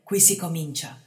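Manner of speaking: cheerful. A narrator's reading. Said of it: "mormorò allegramente".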